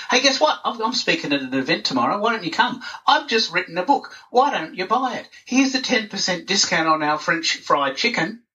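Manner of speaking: high, eager hard-sell voice; mock pushy self-promoter. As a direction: pitch yourself too eagerly, up high. Mocking self-promoting posts.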